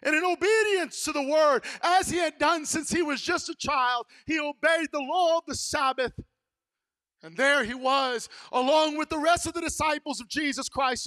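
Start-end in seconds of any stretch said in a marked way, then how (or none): 0.0-9.4 rising, shouted preaching. Acted. Preacher to the congregation, rising to a shout. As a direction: build it up to the crowd. Preacher building to full force.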